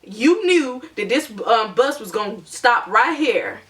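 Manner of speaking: slow, a hint of a scolding driver; mildly mock the driver's scolding; lightly voiced driver. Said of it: "he's like".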